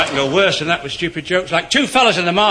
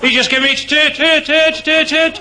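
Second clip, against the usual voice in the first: high, loud, stuttering glee; excited stammer; 7 semitones higher, 3 dB louder than usual. Acted. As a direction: stutter out the story, delighted. Stammerer laughing to mate.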